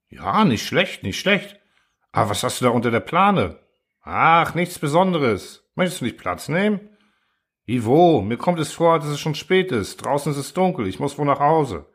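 a nervous guest trying to leave; uneasy Truhl. Acted. Truhl voiced higher in dialogue.

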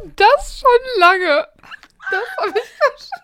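high, laughing through tears; choking with laughter; cracking up mid-line. Real, not acted. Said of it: "ich hab einen Lachflash". (unter Lachtränen sprechend)

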